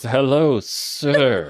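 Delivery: royal in a panic. Retold or imitated. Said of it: "she bows deeply and says".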